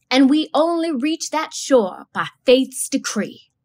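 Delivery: slow, sustained chanted line; a hint of a song leader lining out; lining out a hymn. A narrator's reading. Zebo to the congregation, slow lined-out hymn.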